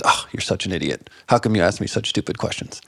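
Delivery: lightly imitated Russian teacher, low and scornful; a hint of a stern Russian accent; deep Russian accent. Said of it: "in her deep Russian accent".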